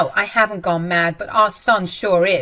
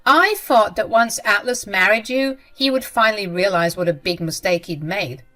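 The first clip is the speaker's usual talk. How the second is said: louder, cutting accusation; mother-in-law attacking daughter-in-law, louder and spiteful; spiteful retort; 4 dB louder than usual. Acted. Jenny retorts with insults.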